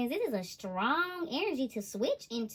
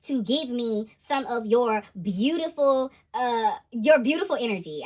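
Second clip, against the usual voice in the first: mock loud masculine; 5 dB louder, slower than usual. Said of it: "somebody masculine is loud. They're like".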